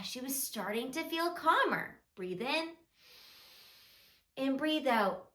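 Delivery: soft, measured storybook narration; children's storytelling. A narrator's reading. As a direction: tell a gentle story to small children.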